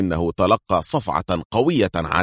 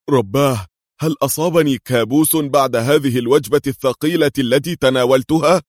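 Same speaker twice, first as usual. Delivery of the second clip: higher, louder jolly fat man's voice; groggy jokey big man just woken; Qadri's voice; 6 semitones higher, 4 dB louder than usual. A narrator's reading. Woken man at gunpoint, higher jokey voice.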